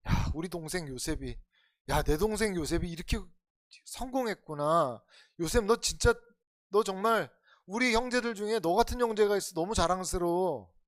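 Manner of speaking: lightly acted brotherly pride, lifting in pitch toward the end; proud older brother. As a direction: admire a younger brother, building gradually. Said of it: "자기 형들한테 무슨 얘기 듣고 싶었겠어요". (동생을 자랑스러워하는 형의 말투)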